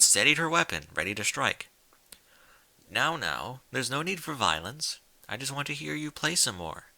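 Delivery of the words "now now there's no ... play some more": a touch softer, soothing and unhurried; calm her down without a hint of threat; mild calm coax to a frightened mare. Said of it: "A female voice, so calm".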